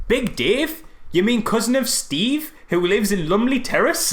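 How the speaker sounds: high, slow, hammed-up clarifying question; mock exposition. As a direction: parody a clunky introduction in a high voice.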